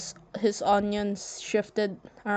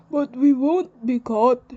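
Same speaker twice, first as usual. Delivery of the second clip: smooth reassurance; 4 semitones higher, 9 dB louder than usual. Acted. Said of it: "Antef said smoothly".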